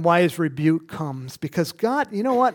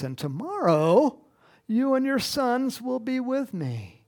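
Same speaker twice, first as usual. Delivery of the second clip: louder, stern prophet's pronouncement; voicing Samuel; 6 dB louder than usual. Samuel pronouncing doom on Saul, stern and loud. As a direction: deliver the verdict like a prophet. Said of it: "Samuel gives a response".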